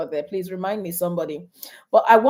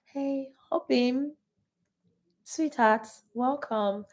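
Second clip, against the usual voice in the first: soft-spoken; 2 semitones higher than usual. Shown as a demonstration. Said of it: "That soft-spokenness".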